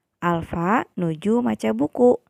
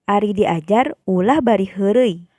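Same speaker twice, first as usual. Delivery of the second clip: louder, emphatic teacher's warning; rather forceful prohibition; 6 dB louder than usual. Shown as a demonstration. Teacher models telling pupils not to joke while studying, rather forceful. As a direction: project it as a firm don't. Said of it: "rada bedas".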